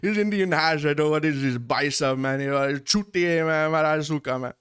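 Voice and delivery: hammed-up innocent denial to the cop; mock innocent protest. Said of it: "And we're like".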